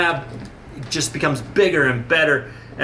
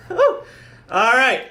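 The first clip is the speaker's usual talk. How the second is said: laughing it off; 8 semitones higher, slower than usual. Real, not acted. Laughing at own emotion.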